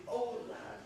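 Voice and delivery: a hint of a baby speaking to its father; voicing the baby. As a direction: lightly voice the child's fond look. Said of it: "as who should say".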